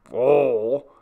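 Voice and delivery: a loud, angry bark of one word; irate exclamation. Acted. The butler snapping irately at Maria. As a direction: snap it back, irate. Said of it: "exclaimed Mister Skegg irately".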